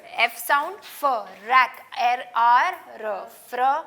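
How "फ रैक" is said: फ, रैक said slowly and loudly as separate sounds; sound split. Shown as a demonstration. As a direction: break the word into फ and रैक. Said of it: "मैं आवाज़ बोल रही थी फ्रैक्चर". (ध्वनि अलग-अलग करके बोलना)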